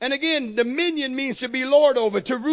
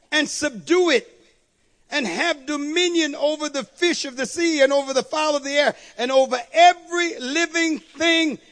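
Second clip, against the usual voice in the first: raised, measured reading of scripture; 3 semitones higher than usual. Acted. Preacher reading Genesis to the congregation, proclaiming.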